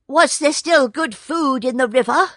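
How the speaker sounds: high, fast, yippy jackal voice; a sly, eager jackal, yipping high. Acted. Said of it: "said the Jackal".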